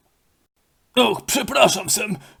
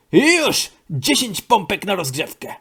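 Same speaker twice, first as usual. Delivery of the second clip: coach command. Acted. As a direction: drill them into push-ups. Trener zarządza pompki. (trener głośno odlicza pompki)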